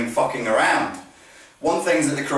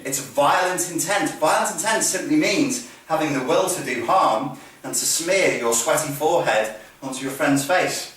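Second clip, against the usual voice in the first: normal talking voice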